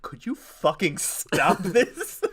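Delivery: loud, slow, high plea; mock exasperation. Expert begging the hosts to stop, acted exasperation. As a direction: drag it out, fed up.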